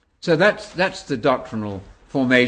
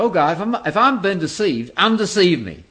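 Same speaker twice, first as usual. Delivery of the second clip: raised, louder retold plea to God; quoted earnest prayer; 8 semitones higher, 6 dB louder than usual. Speaker quoting an Australian pastor's prayer to God, earnest plea. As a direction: call the quoted prayer out, high and emphatic.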